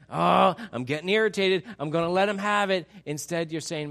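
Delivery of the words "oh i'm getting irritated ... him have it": louder, exasperated parent losing patience; a mock snap at the kid in the back seat; an irked parent about to lose it with little Johnny; irritated parent. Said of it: "instead of you like".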